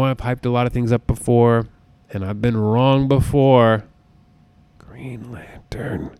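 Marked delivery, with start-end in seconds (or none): 4.8-6.1 whispered aside. Real, not acted. Confessing an embarrassing flop.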